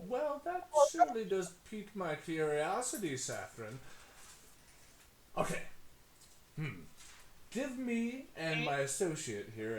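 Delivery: high, slick salesman patter; smooth-talk a business partner; fast-talking hustler. Acted. GM voices Tony.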